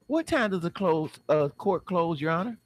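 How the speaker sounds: high-pitched courtroom query; anxious question. Acted. Defendant asking the judge when court closes, high anxious voice. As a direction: ask it way up high.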